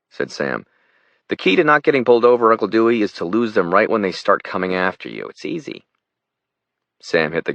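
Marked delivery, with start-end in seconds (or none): 1.3-5.9 put-on higher, fast, breezy teen voice; a brash kid showing off his driving; cocky teenage boy. Teen nephew boasting to Uncle Dewey, a lightly voiced cocky teen.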